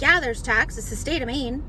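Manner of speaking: imitating a curt, rude clerk. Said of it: "Like, all so rude".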